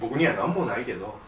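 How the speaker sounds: words broken by a burp; a burp slipping into the line. Real, not acted. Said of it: "今のゲップでカットや".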